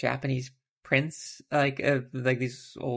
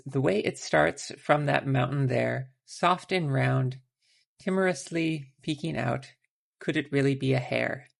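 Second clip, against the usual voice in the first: a lightly performed reading of a short poem. Acted. Reads the translated poem aloud.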